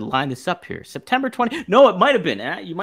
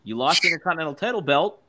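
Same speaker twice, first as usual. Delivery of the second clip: eager fan; 5 semitones higher, 5 dB louder than usual. Retold or imitated. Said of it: "a lot of the fans thought".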